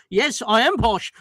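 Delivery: mock posh Oxford English; posh RP accent. Answering people who call him posh, posh RP. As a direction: put on self-satisfied received pronunciation. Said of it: "speaks it like that".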